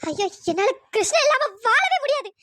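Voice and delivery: crying out in hopeless grief; weeping that she can't go on; despairing sobs. Acted. Girl despairing, suicidal. (நம்பிக்கையற்ற அழுகை)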